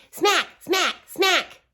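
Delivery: high, bright smacking words. Shown as a demonstration. Inviting kids to smack along, high excited smacks. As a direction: hit each smack high and loud. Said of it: "Go ahead and smack with me".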